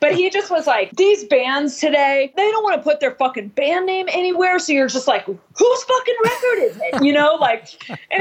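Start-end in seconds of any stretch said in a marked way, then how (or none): 1.0-4.6 mock yelling. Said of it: "he's just, like, yelling". 5.3-7.0 mock yelling. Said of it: "he's just, like, yelling".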